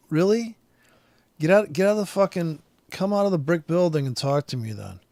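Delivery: mock outraged snap, starting high and easing off; exasperated retort. Customer fires back at the drive-thru lady, exasperated. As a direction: retell an indignant comeback, punchy at the start.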